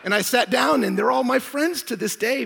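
laughing loudly while telling. Real, not acted. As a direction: burst out laughing mid-line. Laughing at own story.

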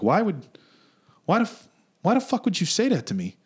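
high, incredulous challenge; indignant comeback. Retold or imitated. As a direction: retell it as a stung protest, pitch pushed up. Acts out confronting the rude customer.

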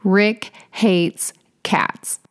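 slow, whispered confession; a slow hushed aside to the listener; conspiratorial whisper. A narrator's reading. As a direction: lean in and whisper it slowly like a secret. Aside revealing a key fact.

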